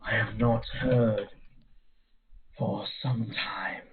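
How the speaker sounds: slow eerie whispered banshee; a breathy, drawn-out spirit voice. Acted. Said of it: "how to do a Banshee's voice".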